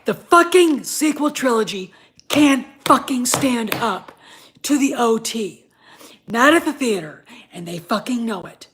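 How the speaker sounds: loud, furious cursing at the sequels; a fan boiling over in a loud rant; angry rant. Real, not acted. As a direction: vent real anger, full volume. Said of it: "but I'm pissed".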